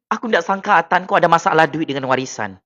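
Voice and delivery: ordinary talk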